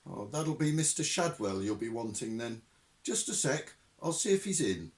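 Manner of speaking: a hint of a helpful landlady; landlady fetching the lodger to the phone; Madam Tracy.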